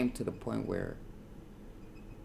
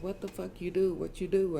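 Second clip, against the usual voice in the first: imitated girl screaming; 12 semitones higher than usual. Girl screaming at the boyfriend, imitated scream. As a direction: mimic a screaming girl high in the voice. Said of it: "I heard a girl screaming".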